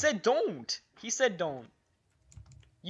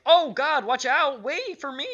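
loud, higher imitation of a friend; mock panicked call for help; imitated voice; 4 semitones higher, 6 dB louder than usual. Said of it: "your voice sounds different than most, like".

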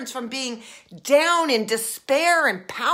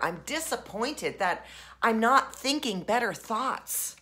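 acting disappointed. Shown as a demonstration. Coach voicing the disappointment step, deflated. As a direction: sound let down with yourself. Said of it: "And disappointment is next".

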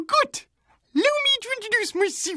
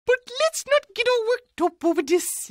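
ordinary delivery

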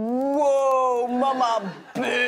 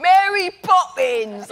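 slow, loud, a touch higher shout of the name; calling out; 5 semitones higher, 9 dB louder, slower than usual. Retold or imitated. Fans spotting the actress on the street, loud call. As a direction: yell the name like a fan spotting her. Crowd calls out her name.

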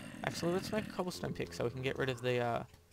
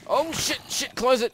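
high frantic yell; panicked scream; 12 semitones higher, 9 dB louder than usual. Real, not acted. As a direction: scream it in sudden terror. Sudden attack, yelling.

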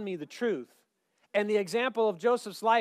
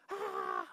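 hammed-up panicked "ah"; mock freak-out cry; 8 dB quieter than usual. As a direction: cry out in fake alarm. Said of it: "that's my freak out face".

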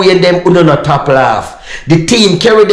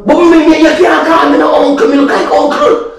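indignant; 12 semitones higher than usual. Real, not acted. Offended at being called uncle.

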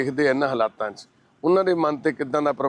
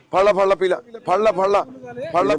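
loud coaxing; 6 semitones higher, 4 dB louder than usual. Real, not acted. Urging him to take water.

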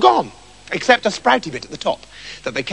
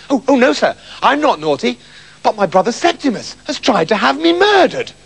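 higher, protesting pupil; earnest little Basil; 5 semitones higher than usual. Acted. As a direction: plead innocence to the teacher. Basil pleads innocence to teacher.

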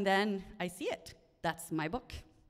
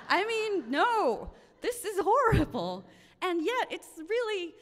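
high, louder rush of upset; agitated retelling; 10 semitones higher, 5 dB louder than usual. Real, not acted. Narrator reliving the theft to listeners, agitated. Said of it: "reliving the shock while telling it".

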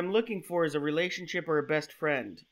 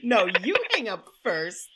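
giggly late night call; 7 semitones higher, slower than usual. Acted. Lovers' hang-up game, laughing.

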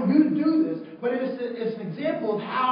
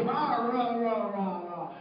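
imitated ranting; 3 dB quieter, much slower than usual. Imitates man ranting on phone.

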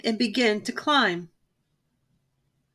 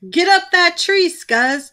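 loud, high bully's yell; yelling order; 8 semitones higher, 6 dB louder, slower than usual. A narrator's reading. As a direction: bark it at the gang from below. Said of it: "Too Tall yelled to one of the gang".

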